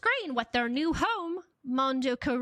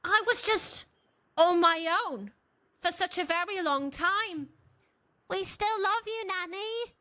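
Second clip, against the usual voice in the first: higher, sing-song reply; lightly voiced apology; 5 semitones higher than usual. Narrator voices Jocelyn and the babies, pitched up. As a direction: play it sweet and childlike.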